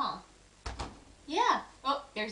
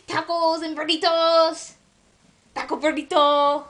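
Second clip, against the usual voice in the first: playful silly voice; 7 semitones lower than usual. Pretend. Silly food words to amuse baby.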